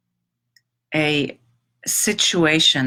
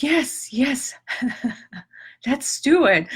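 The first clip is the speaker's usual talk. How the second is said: bright, quick, higher yeses with a laugh; eager yes; 7 semitones higher than usual. Retold or imitated. To a friend offering to adopt the cat, eagerly agreeing. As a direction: jump at the offer.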